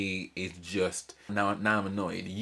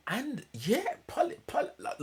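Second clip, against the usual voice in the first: hushed whisper to Polly. Real, not acted. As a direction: lean in and whisper, like a secret aside. Addressing Polly on screen confidentially.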